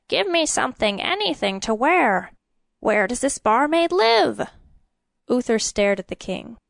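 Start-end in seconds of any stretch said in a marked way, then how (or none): 0.1-4.5 high-pitched, frantic demand; urgent cry. A narrator's reading. Old king wanting clothes from attendant, crying urgently. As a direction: order him about in a great hurry. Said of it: "he cried".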